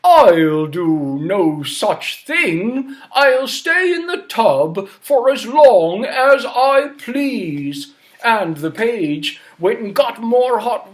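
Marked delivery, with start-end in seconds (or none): 0.0-7.9 slow stubborn refusal; stubborn king refusing again. Acted. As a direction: refuse like a spoilt old king. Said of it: "And King Bidgood said".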